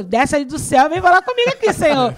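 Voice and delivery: high, loud, insistent call to God; retold demanding plea. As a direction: call out boldly, re-enacting a demanding prayer. Demanding God answer her prayer.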